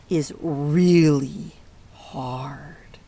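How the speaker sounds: slow, hushed whisper on really hard; whispered emphasis. Real, not acted. Teacher to kids, hushing how hard it is, slow whisper. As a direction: let it sink in with a slow whisper. Gravely stressing a hard situation.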